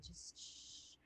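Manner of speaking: chilled-out druid. Pretend. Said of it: "just chilled out druid".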